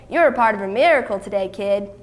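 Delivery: quick, friendly aside from a gruff man; gruffness softened. Acted. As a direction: say it kindly, in passing. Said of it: "his gruff voice didn't sound so rough".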